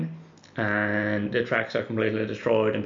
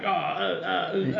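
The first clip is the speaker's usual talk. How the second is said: laggy video call; 7 semitones higher, much slower than usual. Retold or imitated. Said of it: "not as good online because internet connections".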